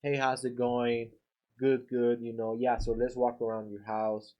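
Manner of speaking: lightly voiced serious salesman meeting a homeowner; too serious greeting. Shown as a demonstration. Painter greets homeowner in a slightly stiff, serious tone. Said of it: "you're pretty serious".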